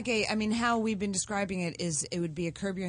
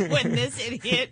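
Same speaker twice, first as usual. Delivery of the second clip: slow words through held-in laughter; trying not to laugh, giggling; stifled giggles; 4 semitones higher, 4 dB louder, slower than usual. Real, not acted. Can't stop laughing on set.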